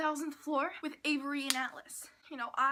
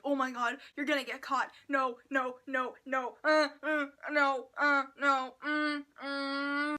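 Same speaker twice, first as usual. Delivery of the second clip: mock panic; 5 dB louder than usual. Acting fear for Noah.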